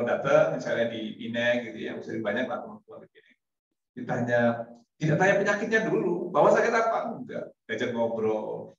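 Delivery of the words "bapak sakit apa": blunt doctor. Retold or imitated. Mimics blunt doctor question.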